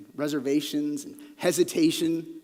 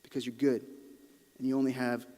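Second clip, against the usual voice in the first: quiet trust. Shown as a demonstration. Preacher quietly telling God he trusts him. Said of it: "declaration of faith".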